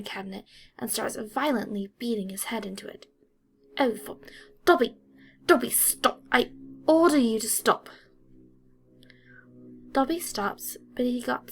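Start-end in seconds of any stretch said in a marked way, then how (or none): 3.8-7.9 loud, urgent shouts to stop; frantic shouted command; shouting. A narrator's reading. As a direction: yell the order over the noise. Master ordering elf to stop.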